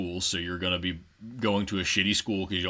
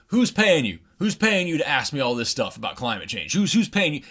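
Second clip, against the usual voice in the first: much higher, mocking accusation; paranoid accusing senator; 7 semitones higher, 3 dB louder than usual. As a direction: sneer the accusation at the kids. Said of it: "turns around and goes".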